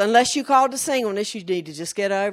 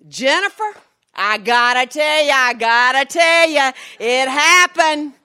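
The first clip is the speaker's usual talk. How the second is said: put-on deep country accent; 3 semitones higher, 10 dB louder than usual. Country pastor phoning the preacher with news, excited deep country accent. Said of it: "he's deep country".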